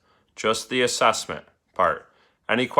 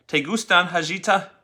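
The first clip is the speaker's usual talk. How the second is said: abuelita asking; 6 semitones higher than usual. Acted. Abuelita asks in story.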